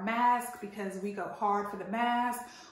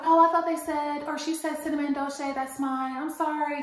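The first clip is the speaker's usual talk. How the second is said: apologetic woman; 4 semitones higher, 4 dB louder than usual. Retold or imitated. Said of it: "she was like".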